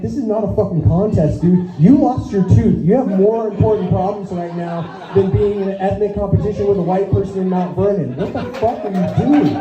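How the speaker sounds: a touch of mock outrage; exasperated retort. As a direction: tell them off in disbelief. Acted exasperated retort to her.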